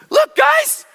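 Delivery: very high, loud, slow taunting voice; mocking classmates. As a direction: jeer at her like schoolkids. Classmates mock her at reunion.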